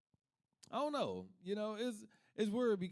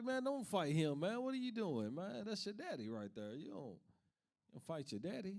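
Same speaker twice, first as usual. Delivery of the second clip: mock pleading friend; pleading bystander; 4 semitones higher than usual. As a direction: beg him to stop, then trail off. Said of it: "He was like".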